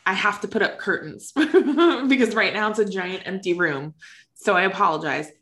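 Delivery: echoey empty room sound; speaking in a bare echoing room; big hall echo. Real, not acted. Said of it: "apologize for the echoiness of my recording".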